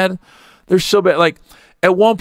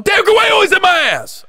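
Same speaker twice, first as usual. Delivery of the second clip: mock yell; faster than usual. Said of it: "he just yells at her".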